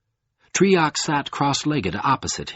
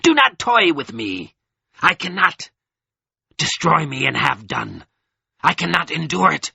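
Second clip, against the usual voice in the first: shriek; 6 semitones higher than usual. A narrator's reading. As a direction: scream it out at breaking point. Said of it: "his voice sharpened into a shriek".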